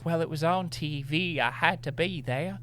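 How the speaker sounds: high, prissy mock belle voice; Southern belle. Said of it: "She's a Southern belle now".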